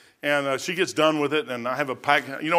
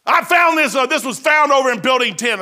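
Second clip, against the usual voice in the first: mock stern boss; 9 semitones higher, 7 dB louder than usual. Boss scolding about tracts.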